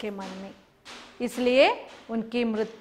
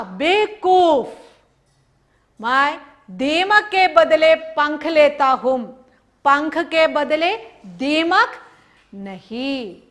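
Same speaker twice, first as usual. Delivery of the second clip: scolding cart driver; 2 semitones higher, 6 dB louder, slower than usual. Acted.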